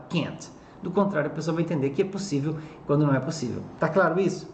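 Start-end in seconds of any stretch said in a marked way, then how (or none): 0.1-0.5 can't with a light, soft T at the end; soft final T. Shown as a demonstration. Teacher showing students: can't with a soft final T. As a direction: let the T in can't come through softly. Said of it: "O T tem que aparecer aqui, mais suave".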